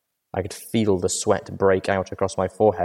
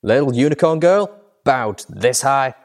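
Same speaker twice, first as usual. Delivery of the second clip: casual question; 5 semitones higher, 4 dB louder than usual. A narrator's reading. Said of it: "he asked casually".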